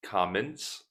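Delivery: "comments" said alone, stressed on the first syllable; pronunciation demo. Shown as a demonstration. Teacher has learners notice one word, "comments" carefully enunciated. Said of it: "Notice comments".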